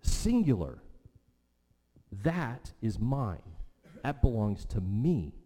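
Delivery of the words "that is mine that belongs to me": slow, deliberate THAT is MINE; measured, firm claim with weight on THAT and ME; emphatic claim. Acted. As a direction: stress "mine" and "me", each claim separate. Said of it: "It's emphatic, singular".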